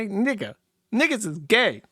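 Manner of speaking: lightly imitated cartoon kid with a high I; a hint of a high kid voice; Riley. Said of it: "Like a really high I".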